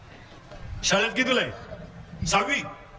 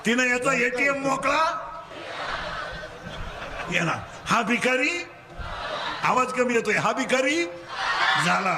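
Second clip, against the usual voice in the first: call-and-response preaching; 5 semitones higher than usual. Real, not acted. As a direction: leave the end rising for them to finish. Call and response story with children. (पोरांकडून वदवून घेणारा चढा सूर)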